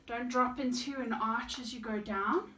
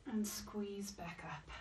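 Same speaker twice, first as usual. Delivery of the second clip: slow, softer whispered coaching cue; 3 semitones lower, 9 dB quieter, slower than usual. Shown as a demonstration. Fitness instructor to class during squats, slow whisper.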